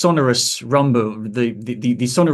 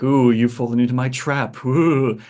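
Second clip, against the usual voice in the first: lightly voiced evil sorcerer, gloating; a hint of a cliché villain demo voice. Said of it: "what I like to call the evil sorcerer voice".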